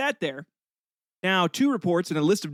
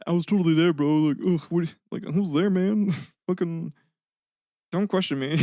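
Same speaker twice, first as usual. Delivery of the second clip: laughing mock New Zealand bro accent; a cocky Kiwi insisting in a New Zealand accent. Author defending his tale, in a jokey New Zealand accent. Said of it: "like, a New Zealand accent".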